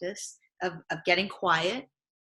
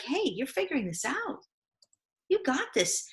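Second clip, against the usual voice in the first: a lightly voiced cheerleader, higher and upbeat; a touch of a confident inner coach; inner badass voice; 7 semitones higher, 4 dB quieter than usual. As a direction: hype yourself up, pitched higher. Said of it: "that inner badass voice".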